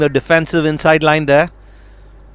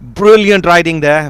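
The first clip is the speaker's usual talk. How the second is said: excited; 2 semitones higher, 4 dB louder than usual. Real, not acted. Calling a challenge live.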